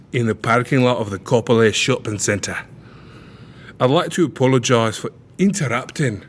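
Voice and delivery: put-on reading in a British accent; a light British accent; English accent. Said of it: "They're doing it again, with the fucking English accent".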